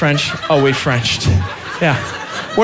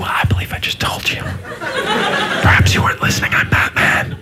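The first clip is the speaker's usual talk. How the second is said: Batman whisper. Retold or imitated. Batman answers himself in mirror.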